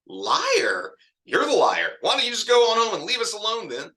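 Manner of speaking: high, fast shouted denial; Twyla furious. Acted. Twyla shouts back at Roberta, denying it, furious.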